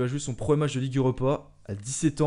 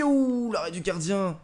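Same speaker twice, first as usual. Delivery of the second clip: slow disappointed groan; 7 semitones higher, 5 dB louder, slower than usual. Real, not acted. Keeper saves the shot.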